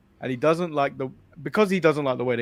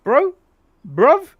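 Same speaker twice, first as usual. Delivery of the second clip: higher, louder, slow exasperated scold; mock scolding; 9 semitones higher, 7 dB louder, slower than usual. Scolding Kenny for never trying to win the title, slow and loud. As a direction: drag out the accusation in disbelief. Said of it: "scolding Kenny, building".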